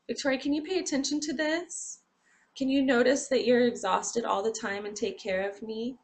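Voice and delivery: body's pleading voice. Acted. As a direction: ask like your own tired body begging for care. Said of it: "that's my body and my mind telling me".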